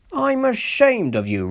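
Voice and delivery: high, stern scolding; severe. A narrator's reading. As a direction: scold him hard. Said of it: "said Skarloey severely".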